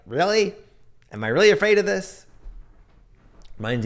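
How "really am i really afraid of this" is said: high, quick disbelief; a startled "wait, really?" to yourself; incredulous surprise. Pretend. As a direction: catch yourself, amazed at your own fear. Imagined reaction to own fear.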